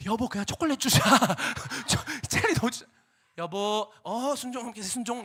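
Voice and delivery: loud, high, laughing plea to the wife. Retold or imitated. Husband begging his wife for chocolate, loud and laughing. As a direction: coax the wife with a giggle.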